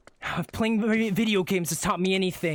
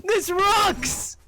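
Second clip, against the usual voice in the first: gloating triumph; 11 semitones higher, much slower than usual. Acted. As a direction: shout it to the world. Boasting after the victory.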